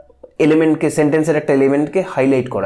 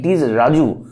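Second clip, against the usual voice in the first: rাজু said as if pointing at him; pointing emphasis; slower than usual. Shown as a demonstration. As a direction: point out Raju firmly. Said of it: "যেন আঙুল দিয়ে দেখিয়ে দেওয়া হচ্ছে".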